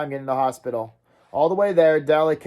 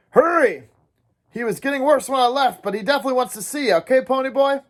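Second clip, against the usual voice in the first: urgent hurry; 9 semitones higher, 3 dB louder than usual. Acted. Dally rushing Ponyboy to hospital.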